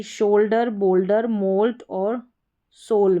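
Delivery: शोल्डर, बोल्डर, मोल्ट with a long "o"; "o" sound. Shown as a demonstration. Teacher reads examples to students, long "o" sound. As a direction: sound ओयू as ओ in शोल्डर and सोल. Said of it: "ओ करके पढ़ते हैं".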